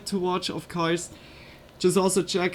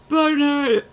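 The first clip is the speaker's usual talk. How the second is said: high, loud angry mob call; rally the mob; mob cry; 7 semitones higher, 5 dB louder than usual. Pretend. Mock witch-hunt mob cry.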